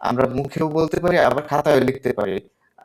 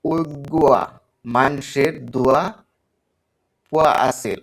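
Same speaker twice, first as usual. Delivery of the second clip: teacher demoing Chittagonian dialect words; Chittagong dialect. Shown as a demonstration. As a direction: show the Chittagong regional speech. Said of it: "Chittagong অঞ্চলের যেমন আঞ্চলিক ভাষা".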